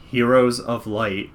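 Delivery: slow, lightly voiced replay of a remembered line; understated, slowed character voice; Noel. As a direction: draw the words out as an echo in someone's head. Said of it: "in Noel's voice".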